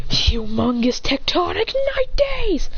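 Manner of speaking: slow, high anime move shout; drawn-out high battle call; attack call. Acted. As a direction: announce the special attack, stretched and high. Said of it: "As she goes".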